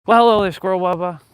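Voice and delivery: high, loud greeting to an animal; playful greeting. Real, not acted. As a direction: call out playfully to a squirrel. Calling out to a squirrel.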